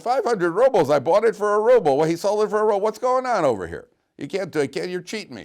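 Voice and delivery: high-pitched, shouted retold indignation; outraged protest. Cheated buyer protests the five hundred rubles, shouting in outrage. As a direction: protest at the top of your pitch, scandalized.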